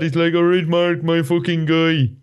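high, slow Irish impression; a broad Irish voice, drawn out; Irish accent. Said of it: "you want to hear my Irish impression?".

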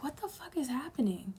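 a confused inner whisper; whispered disbelief. Retold or imitated. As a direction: whisper it to yourself, lost. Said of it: "I'm like".

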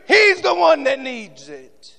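high, loud ringing command; Jesus commanding. Acted. Jesus telling the crowd to bring the man, shouted. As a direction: call the order out over the crowd. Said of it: "Jesus answering".

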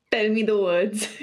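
laughing through the words. Real, not acted. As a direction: trail off into a laugh. Laughing at own complaint.

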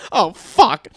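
loud, high mock cursing; hammed-up dismay; dismayed mom. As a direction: imitate a mom's alarmed "I've messed up" reaction. Mom reacting to crying, retold.

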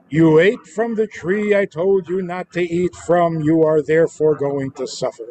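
firm, punishing God voice; stern threat. Shown as a demonstration. God warning Adam he will suffer, stern. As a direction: lay down the sentence sternly. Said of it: "That's a tone".

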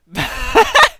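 high burst of flustered laughter; real sheepish giggle; embarrassed laugh. Real, not acted. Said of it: "I feel embarrassed now".

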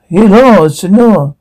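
lightly faked thick Spanish accent; put-on Spanish accent. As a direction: sales greeting in a mock Spanish accent. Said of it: "Your thick accent".

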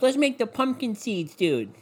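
high, slow mock-enthusiast voice; mocking imitation. Mocking the people who love pumpkin seeds, in a put-on voice. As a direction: draw it out high to mock them.

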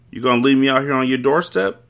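lightly teasing question at the door; a hint of playful mischief. Man teases his friend from the doorstep, playfully. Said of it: "he asked playfully".

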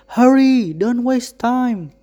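urgent call from a distance. A narrator's reading. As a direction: shout it across to him, hurrying him on. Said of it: "Father Lascelles called out".

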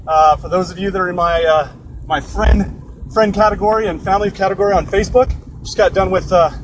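slightly winded after jujitsu training; out of breath. Real, not acted. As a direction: talk while still catching your breath. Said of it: "so I'm a little out of breath".

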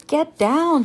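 sharp, high, loud shout. A narrator's reading. Sister warning her brother, loud shout. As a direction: yell a warning. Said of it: "shouted Annie".

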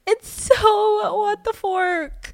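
laughing. Real, not acted. Host reacting to the cops, in high laughter. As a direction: giggle it out, baffled.

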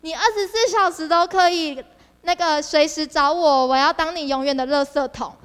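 lightly voiced teen writing a card, sweet and earnest; mock sweet card promise. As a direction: promise it like a schoolkid's note. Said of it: "会写卡片都说". (轻轻模仿中学生卡片的甜蜜承诺)

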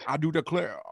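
slow mild rooster-cartoon drawl; Foghorn Leghorn. Mocking the LSU coach, mild cartoon rooster drawl. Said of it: "became Foghorn Leghorn".

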